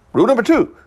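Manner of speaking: very high-pitched mock Asian accent. Comic reciting the store's rules to himself, mock Asian accent. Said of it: "I'm talking now like if I were Asian".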